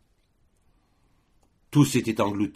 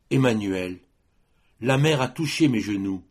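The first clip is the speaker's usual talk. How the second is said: raised, higher voice of mild alarm; acted alarm in verse, higher; alarmed girl; 4 semitones higher, 4 dB louder than usual. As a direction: call his name, then report the danger urgently. Girl alarmed by the rising flood.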